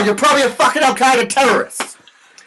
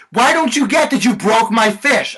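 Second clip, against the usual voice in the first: mock angry customer. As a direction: play the fussy customer losing patience.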